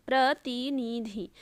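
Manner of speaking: प्रतिनिधि slowly, "pra-ti-ni-dhi"; slow, separated syllables in प्रतिनिधि; sounded out. Shown as a demonstration. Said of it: "सारे जो हैं छोटी की मात्रा".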